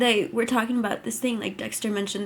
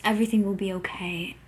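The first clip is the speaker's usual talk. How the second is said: whisper; 2 semitones lower, faster than usual. Retold or imitated. Voicing Dexter on the phone.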